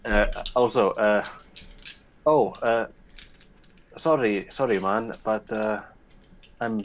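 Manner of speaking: a light put-on Icelandic accent, apologizing; faint Icelandic accent, sheepish and polite; mock Icelandic accent. Player's character says sorry to tourists in mock Icelandic accent. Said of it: "I'll keep my shitty Icelandic accent".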